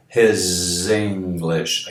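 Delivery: His English said slowly with HIS as hez; slow model. Shown as a demonstration. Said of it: "não his".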